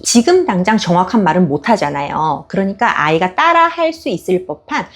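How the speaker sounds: usual speaking voice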